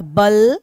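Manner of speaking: emphasised बल; stress on बल. Shown as a demonstration. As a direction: hit बल firmly. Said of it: "इसके नाम में ही आंसर है बलाघात".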